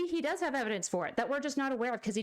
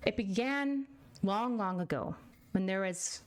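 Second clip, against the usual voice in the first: mock storytelling. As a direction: tell it like a children's bedtime story. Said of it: "I'm gonna tell you guys a story".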